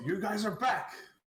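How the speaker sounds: shrill, high, loud dwarf voice shout. Voicing a dwarf who calls out to the party in a hallway: shouting dwarf voice. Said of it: "a familiar dwarf voice shout out to you".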